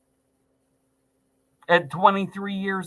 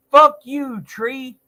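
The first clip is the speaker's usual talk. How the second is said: shouted curse; 5 semitones higher, 4 dB louder, slower than usual. Real, not acted. Cursing at a tree.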